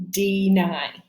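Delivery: "deny" slowly as dee-nigh; word sounded out. Shown as a demonstration. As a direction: split "deny" into two syllables, long I at the end. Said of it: "going to be the long I".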